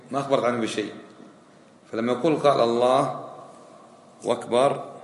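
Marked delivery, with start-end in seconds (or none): 2.6-4.9 أكبر said as wakbar, rising; mock wakbar with a rise; wrong wakbar. Shown as a demonstration. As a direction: slip a waw in: الله wakbar. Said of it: "وعظيم، بعدين عطني الخبر".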